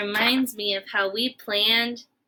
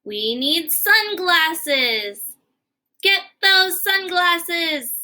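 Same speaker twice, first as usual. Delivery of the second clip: grave slow planning; 5 semitones higher, slower than usual. Acted. Gerald gravely plans the trip.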